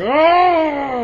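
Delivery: high, loud shocked "Oh!"; surprised gasp. Retold or imitated. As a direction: gasp like the twist just hit. Mock reaction to the reveal.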